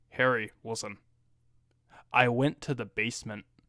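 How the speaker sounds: completely flat, toneless, dead-level monotone. Retelling a woman's very first words to a man, flat monotone. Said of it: "completely monotone".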